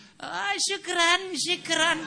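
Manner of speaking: mock thanks. Student imitated answering in Arabic.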